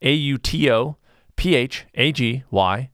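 each letter slow and separate; slow careful spelling for listeners; spelled out. Shown as a demonstration. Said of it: "if you wanna Google, uh, autophagy".

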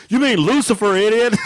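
high-pitched imitation of an exasperated correction; mock exasperation. Retelling Cameron correcting his brother, mock exasperation. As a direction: correct him in a high, comic voice. Retold sibling correcting the kid.

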